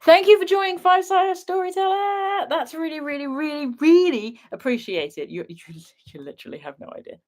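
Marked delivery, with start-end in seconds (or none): 0.0-5.3 posh flamingo voice. Pretend. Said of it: "I do flamingo impression quite regularly".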